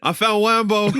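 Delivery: "Wambo" with a w for the r; says w for r. Retold or imitated. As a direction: Rambo said as "Wambo". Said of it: "couldn't say his R's".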